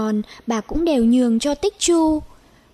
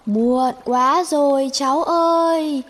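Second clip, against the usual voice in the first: slightly higher, gently regretful; a hint of a sad bird; 4 semitones higher than usual. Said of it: "Nghe chim nói". (giọng chim hơi buồn tiếc)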